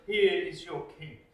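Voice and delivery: understated scornful presentation; a hint of a sneering governor; dripping sarcasm. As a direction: Pilate mocking the people, mild sarcasm. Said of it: "his sarcasm dripping as he says".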